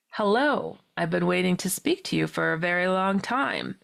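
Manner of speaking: lightly voiced channeled being; measured, even imitation of the being; reduced-accent entity voice. Being speaking through entranced friend, lightly voiced with reduced accent. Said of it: "had a very reduced accent".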